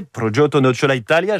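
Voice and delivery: "Progetto Nocciola Italia" in playful Italian sounds, rolled r; "Progetto Nocciola Italia" said with a gourmand Italian flourish; Italian pronunciation. Shown as a demonstration. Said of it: "je résiste pas à vous le faire une deuxième fois".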